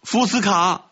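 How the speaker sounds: high-pitched, tearful call; acted wail of a weeping child; tearful cry. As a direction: call out as if sobbing. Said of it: "哭哭啼啼地喊道".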